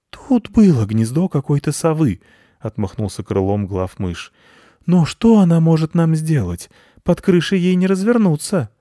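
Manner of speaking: high squeaky bat brushing it off; high bat voice, brushing off the threat; dismissive bat. A narrator's reading. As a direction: wave it away as a little high-voiced bat. Head bat voice.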